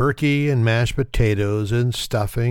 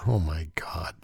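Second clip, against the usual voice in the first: breathy whispered disbelief; whispered aside; 7 semitones lower, 10 dB quieter than usual. Real, not acted. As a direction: whisper it to yourself, aghast. Disgusted aside after recipe.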